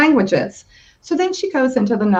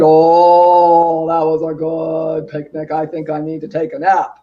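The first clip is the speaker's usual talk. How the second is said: papa mouse; 7 semitones lower, 4 dB louder than usual. Acted. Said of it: "And then Papa said".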